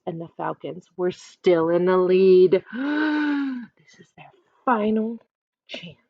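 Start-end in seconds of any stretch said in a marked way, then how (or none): 2.7-3.6 gasp. A narrator's reading. Suspense before last chance.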